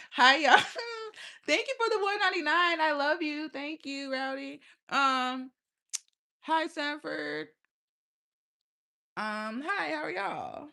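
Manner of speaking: high, cheery hello to the viewers; sweet, bubbly thanks for the gift; bright greeting. Real, not acted. Streamer greeting her viewers with a high cheerful voice.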